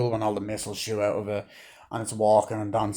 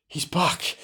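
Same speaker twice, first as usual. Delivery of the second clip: mock excited announcement; 6 semitones higher than usual. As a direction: lift the pitch as the mock hype builds. Retold reaction, repeated higher.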